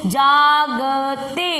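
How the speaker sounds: जागते stretched very slowly; slow syllable reading. Shown as a demonstration. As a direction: spell out जागते slowly for the child. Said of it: "पढ़ो इसको". (धीरे धीरे जागते पढ़ना)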